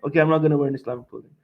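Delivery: rushed mock giving-in; imitated meek compliance. Imitating Muslims giving up Islamic clothing, hastily compliant. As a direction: concede hastily, dropping the pitch. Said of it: "We're sucking up to everything".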